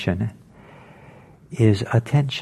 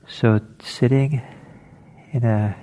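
unhurried meditation guidance with long pauses; guided meditation. Acted. Teacher settling listeners into an alert meditation posture, guided meditation. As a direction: ease them gently into stillness, phrase by phrase.

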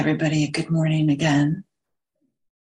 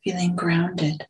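unhurried meditation guidance, long silences between phrases; guided meditation; slower than usual. Real, not acted. Teacher settling a group into sitting posture, guided meditation. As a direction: guide them gently into the sit, phrase by phrase.

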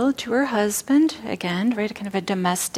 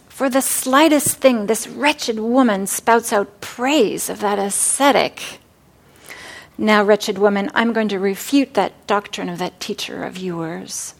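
mildly angry husband. Acted. Brahmin husband rebuking his wife, mildly angry. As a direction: scold her for praising the ascetic. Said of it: "her husband says".

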